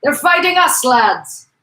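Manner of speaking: high, loud rallying shout; wild cry. Acted. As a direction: cry out wildly to your mates. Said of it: "cried wildly".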